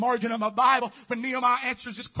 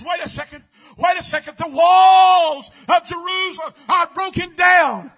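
alarmed cry; 3 semitones higher, 10 dB louder than usual. Acted. Nehemiah's alarm voiced in sermon.

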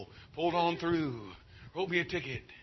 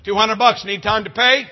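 judge handing down fines; 5 semitones higher, 11 dB louder than usual. Retold or imitated.

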